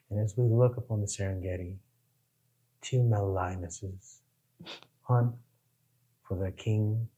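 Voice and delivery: a hint of a hushed British wildlife narrator; David Attenborough. Mimicking a British wildlife documentary narrator, understated hushed. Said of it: "David Attenborough".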